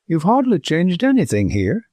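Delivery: a man coming back to himself, speaking abruptly; abrupt, far-off tone. A narrator's reading. Arthur, dazed in his old home, abrupt and far-off. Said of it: "in the far-off tone of a man slowly coming back".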